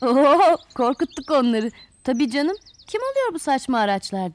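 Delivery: acted scoffing after a gloating "Oo"; smug mockery. Flowers gloating that they scared the tools, smug mockery. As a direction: sneer dismissively, as a storybook character.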